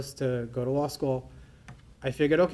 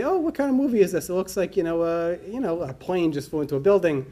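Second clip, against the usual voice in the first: puzzled, as if this must be a movie; bewildered question; 3 semitones higher, 3 dB louder than usual. Retold or imitated. To his cousin watching TV, bewildered and a bit louder. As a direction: pitch jumps high on a confused "oh".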